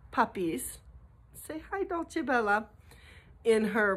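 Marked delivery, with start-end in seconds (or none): 1.5-2.7 talking to pet. Real, not acted. Owner coaxing her dog to greet viewers, high pet voice. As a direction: coo it higher to the dog.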